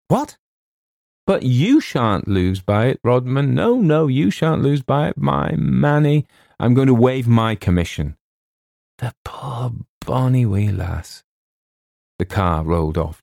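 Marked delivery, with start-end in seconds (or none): 0.1-0.4 high startled what; shocked cry. Acted. Author shocked at losing the contract terms. 1.3-8.2 emotional Scotsman. Acted. Agent soothing, emotional. 9.0-11.2 tearful Scotsman. Acted. Agent murmurs again.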